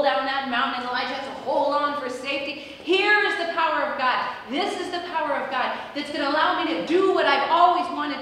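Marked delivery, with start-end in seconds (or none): 2.8-8.2 raised, emphatic awe; acted thrill at great power; excited proclamation. Acting Elijah's thrill at God's power.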